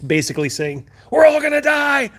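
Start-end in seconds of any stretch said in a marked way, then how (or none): 1.1-2.1 high, loud mock-panic wail; over-the-top disaster-film panic; panicky guy. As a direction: ham up the doomed disaster-movie extra. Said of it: "I was panicky guy number three".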